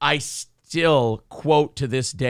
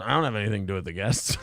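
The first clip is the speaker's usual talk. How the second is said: imitating Artie; 6 semitones lower, 5 dB quieter, faster than usual. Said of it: "Artie goes".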